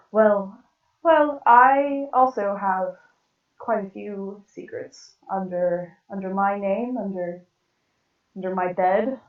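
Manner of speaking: lightly refined character voice; Japsor. Acted. Smiling Japsor admitting secrets to Tara, lightly refined voice. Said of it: "where's my Japsor voice".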